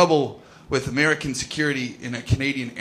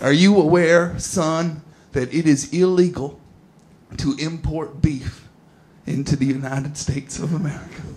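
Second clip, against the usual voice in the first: stern American officer. Retold or imitated. Guard lecturing the British comedian about beef in a Southern drawl. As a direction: lay down the law like a US border guard, stretching "to import beef". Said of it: "It's like".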